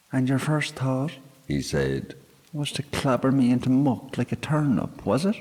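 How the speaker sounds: a high, squeaky fairy voice; little fairy man sarcastically scolding; indignant sprite. A narrator's reading. Sprite berates girl.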